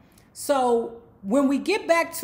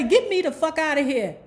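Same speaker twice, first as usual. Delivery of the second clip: annoyed demand; 5 semitones higher, 4 dB louder than usual. Retold or imitated. Winter demands to leave, first take.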